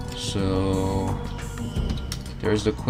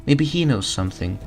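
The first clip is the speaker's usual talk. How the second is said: higher, cheerful mom voice; motherly diner cook; 6 semitones higher than usual. Acted. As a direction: dote on the hungry customer. Mom NPC speaks.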